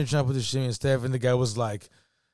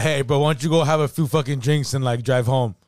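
louder mock offer, taunting; mocking comeback; 3 semitones higher, 6 dB louder than usual. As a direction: taunt him back with a loud fake suggestion. Mock retort to the stranger.

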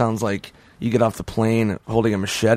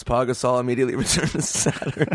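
laughing read. Real, not acted. Reading through laughter.

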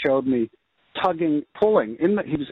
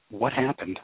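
stunned inner thought; 3 semitones lower, 5 dB quieter than usual. Retold or imitated. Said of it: "and I just thought".

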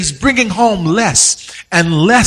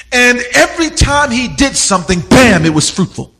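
building sermon. Acted. Preacher telling his church about Adam's curse, building fervor. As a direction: preach it, leaning into the story of Adam.

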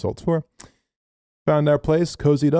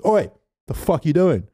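higher, rough mock bloke yelling from a van; rough stranger; 8 semitones higher, 3 dB louder, slower than usual. Storyteller imitating a local shouting at them from a van, higher and rough. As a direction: play the annoyed local shouting out the window.

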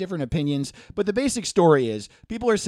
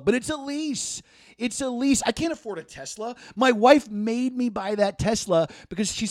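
lightly voiced smug boss pleading with staff; a hint of a fake-caring manager; mock donut shop owner; 2 semitones higher than usual. Plays the owner addressing his workers.

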